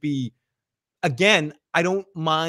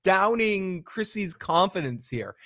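exasperated snap; 4 semitones higher than usual. Retold or imitated. Boyd snapping at Kenny to stop panicking, exasperated. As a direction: cut him off hard, losing patience. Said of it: "he just turns to Kenny".

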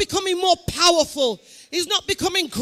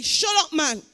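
telling off own mind; 4 dB louder, slower than usual. Acted. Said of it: "speak to your mind and say".

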